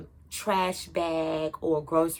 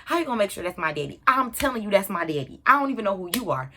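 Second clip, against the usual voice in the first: fast, a little louder protest; indignant kid; 3 dB louder, much faster than usual. Retold or imitated. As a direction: fire back at the stranger, quickly. Child argues back with stranger.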